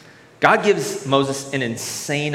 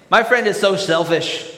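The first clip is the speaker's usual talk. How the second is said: mock bitter complaint, a bit louder; bitter cynic; 3 semitones higher, 4 dB louder than usual. Preacher voicing a cynical friend, bitter and louder. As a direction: grumble resentfully about the friend.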